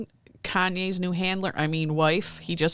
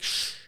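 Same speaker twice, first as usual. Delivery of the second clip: drawn-out shush; voiceless shushing hiss; 6 dB quieter than usual. Acted. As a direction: hush someone with "shh". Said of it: "I'd be like".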